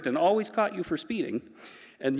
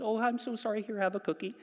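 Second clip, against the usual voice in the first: apologetic mom; 6 semitones higher, 3 dB quieter, faster than usual. Retold or imitated. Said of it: "and then Mom goes".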